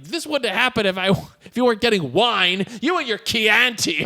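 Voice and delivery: mildly acted blame, slowing at the end; retold fury. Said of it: "furious at him".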